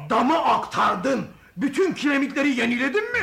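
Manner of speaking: amazed questioning; can't believe it's done; surprised. Acted. Traveler amazed at speed.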